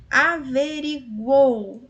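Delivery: Averiguou stretched slowly, each syllable marked; teacher slowly sounds out Averiguou; slow syllable demo. Shown as a demonstration. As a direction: spell out Averiguou by ear. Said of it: "Olha o tritongo aqui".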